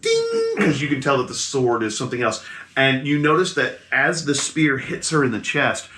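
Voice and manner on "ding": sustained ringing ding, not too loud; gentle bell ding. Retold or imitated. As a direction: imitate a bell that doesn't hurt. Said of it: "not loud enough to be, you know, painful".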